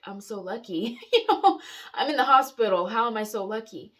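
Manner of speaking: loud laughing disbelief, voice jumping up; incredulous laughing. Retold or imitated. Patient answering the doctor from a hospital bed, incredulous and laughing. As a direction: protest through a burst of laughter.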